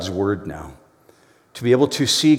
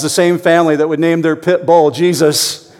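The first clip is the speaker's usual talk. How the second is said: punchline through laughter; 6 semitones higher, 6 dB louder than usual. Acted. Punchline in parrot's reply.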